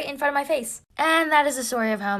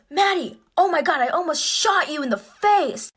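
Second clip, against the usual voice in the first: shaken dad; 7 semitones higher, 3 dB louder, slower than usual. Retold or imitated. Dad nearly shot his daughter.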